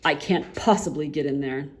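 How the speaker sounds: lightly voiced haughty man; Uppity voice. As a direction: sniff it out grandly. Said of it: "Mister Uppity".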